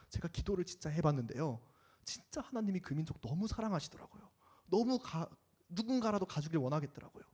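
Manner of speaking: soft, heartbroken asking; a hint of tears, quiet and pleading; tearful plea. Tearful believer voiced, after weeping. (울먹이듯 조용한 호소)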